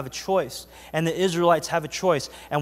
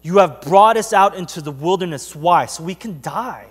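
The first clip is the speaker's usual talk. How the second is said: defiant Israelite; 4 dB louder than usual. Retold or imitated. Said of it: "rebel against God and say".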